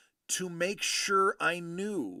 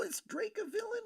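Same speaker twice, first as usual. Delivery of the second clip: whispered aside; 6 dB quieter, faster than usual. Real, not acted. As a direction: whisper the question to yourself.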